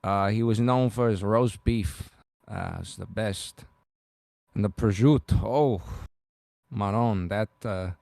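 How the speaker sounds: put-on low Bronx accent, fond and halting; Bronx character. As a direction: Bronx native savoring each food memory. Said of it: "I go really far with the characters".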